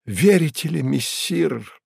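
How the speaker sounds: a sincere, intimate appeal; the cat pleads with his master heartfeltly. A narrator's reading. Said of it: "задушевным голосом начал Бегемот".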